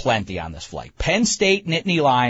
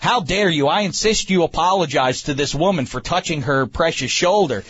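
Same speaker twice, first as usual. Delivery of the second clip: mock scolding; 2 semitones higher than usual. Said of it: "I started to say".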